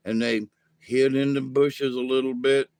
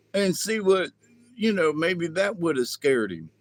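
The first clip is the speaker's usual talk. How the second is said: high alien voice; 4 semitones higher than usual. Acted. Alien Yura answers.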